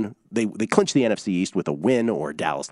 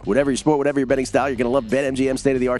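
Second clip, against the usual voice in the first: ad read; 2 semitones higher than usual. Acted. Host reads sponsor ad to listeners, upbeat. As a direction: sell the sportsbook to listeners, upbeat.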